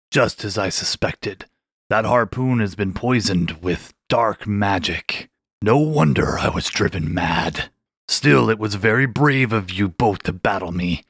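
put-on an old shark gravely praising their bravery; grave shark king. Shark examines the harpoon.

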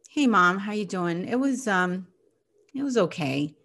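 hint of hurt under a polite answer; subdued upset child. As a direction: let the upset leak through the tone. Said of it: "And you respond like this".

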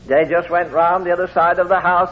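ordinary delivery

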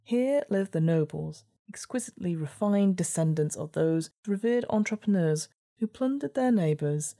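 measured gamebook narrator; story narration. A narrator's reading. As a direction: read it like a storybook.

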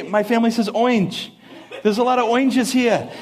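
"orange" said as "oynj", no r; family's orange. Shown as a demonstration. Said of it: "They say".

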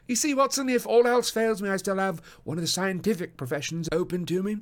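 high, loud amused gentleman; laughing. A narrator's reading. Holmes joking to Watson about another career, laughing. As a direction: speak through amusement. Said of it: "said Holmes, laughing".

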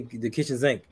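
"sink" said as "zinc" with a z; buzzing z on "zinc"; Baltimore "zinc". Shown as a demonstration. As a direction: demonstrate local "zinc" after kitchen. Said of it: "They say".

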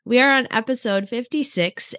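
talking while sick with a cold. Real, not acted. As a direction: voice worn down by illness. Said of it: "as you can hear in my voice".

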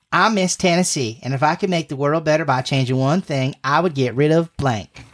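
put-on light Southern pageant-queen accent; a sweet Southern beauty queen, lightly put on. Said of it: "how to do a southern accent".

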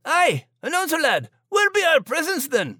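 very high, impatient comic voice; demanding cartoon sidekick. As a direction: pipe up and demand it in old-salt talk. Demanding comic character interrupts announcer.

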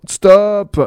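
high loud bark of a stop; roaring. Acted. Exclamation Mark roars at the others, high and loud. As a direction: roar the order.

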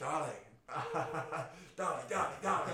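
laughing mock scream of the name; imitating screaming. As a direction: scream the name like a party star. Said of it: "he's always just like".

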